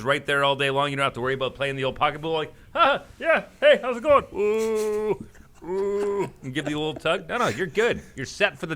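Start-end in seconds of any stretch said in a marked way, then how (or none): 2.7-6.3 high, loud, fake-breezy greeting; mock casual cover-up. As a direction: cover an awkward tug with a cheery hello. Faking casual while adjusting.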